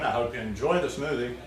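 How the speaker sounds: talking while still chewing; words muffled by a bite of food; mouth full. Real, not acted. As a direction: sign off through a mouthful of food. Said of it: "talk with my mouth full".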